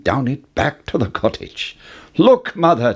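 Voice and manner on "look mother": high excited call to his mother; cried out. A narrator's reading. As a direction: Jack calling out eagerly, a bit higher. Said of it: "Jack cried".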